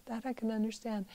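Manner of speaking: "That I can understand" repeated softly and quickly as an afterthought; soft quick echo. Shown as a demonstration. Echoing her own point to the class, quietly and quickly. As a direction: murmur it fast under the breath, as if to yourself.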